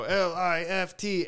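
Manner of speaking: high, slowly stretched letters; drawn-out imitation hype call; mock crowd-hyping shout. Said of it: "they would, like, shout the acronym".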